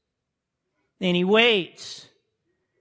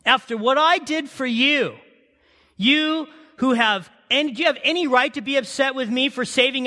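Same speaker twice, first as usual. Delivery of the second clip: God confronting Jonah; 3 semitones higher than usual. Acted. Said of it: "God looks at Jonah and says".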